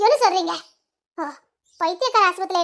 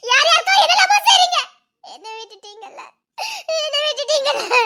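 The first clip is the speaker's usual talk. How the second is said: laughing-crying reproach; 6 semitones higher than usual. Acted.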